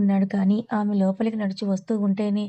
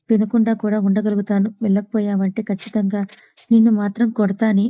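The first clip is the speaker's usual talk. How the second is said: angry threat; 5 dB louder than usual. Acted. Krish threatening to hit her.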